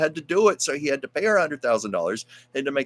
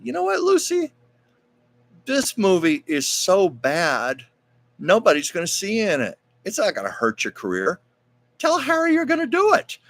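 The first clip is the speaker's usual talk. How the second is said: Desi's voice pitched up high, coaxing; 9 semitones higher than usual. Retold or imitated. Husband Desi coaxing Lucy to take the bad movie, in a high, playful voice.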